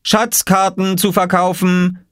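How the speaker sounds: high, drawn-out vendor's call; calling out for sale. A narrator's reading. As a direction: cry your wares like a street seller. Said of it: "rief Oskar".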